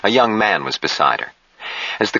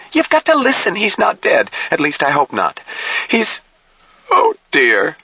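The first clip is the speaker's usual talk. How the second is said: very high, shrill pleading. A narrator's reading. Jill insists to Harshaw he's not dead, shrilly. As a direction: plead in a high, distressed voice, breaking off. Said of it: "said shrilly".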